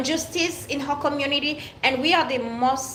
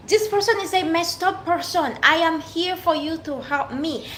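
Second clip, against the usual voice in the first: retold indignant protest; 6 semitones higher than usual. Retelling how she answered the lawyer, indignant and raised. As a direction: throw it back at her in disbelief. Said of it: "I'm like".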